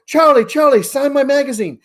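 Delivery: put-on high, eager kid calling out a name; a little girl begging for an autograph; imitating child calling. Daughter calling to a player for an autograph, high and eager.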